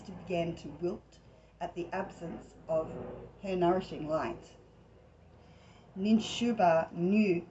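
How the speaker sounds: measured read-aloud of a myth; story narration. Acted. Host reading a goddess myth from a book to listeners, story narration. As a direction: read it out in phrases, with pauses between them.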